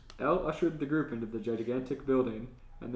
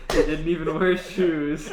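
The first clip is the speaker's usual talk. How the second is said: reading through a laugh; can barely get it out for laughing; 4 semitones higher, 9 dB louder than usual. Real, not acted. Reading absurd scene, cracking up.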